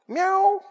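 high, soft little meow; a pitiful stray cat's cry. Retold or imitated. Preacher imitating a stray cat at the door, high meow.

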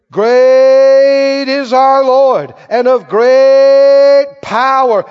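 booming drawn-out opening, settling into firm reading; preaching scripture. Acted. Preacher reading praise of God's power, proclaiming preaching. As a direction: stretch the first praises loud, then declare steadily.

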